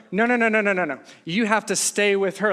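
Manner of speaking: rapid string of objections, mildly insistent; urgent protest. Retold or imitated. Traveler to friends leaving the girl behind, urgent protest. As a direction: cut in to stop them, re-enacted.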